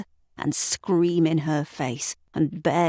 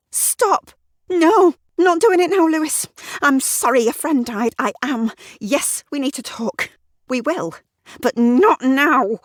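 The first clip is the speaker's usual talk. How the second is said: higher and louder Sarah cutting him off; Sarah voiced higher, sharp; angry wife; 10 semitones higher, 6 dB louder than usual. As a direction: shut the conversation down firmly.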